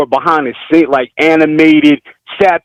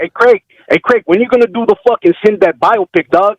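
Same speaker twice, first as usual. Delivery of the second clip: raised cholo street accent; 4 semitones higher than usual. Shown as a demonstration. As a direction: call out in cholo slang. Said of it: "my accent is pretty fucking authentic".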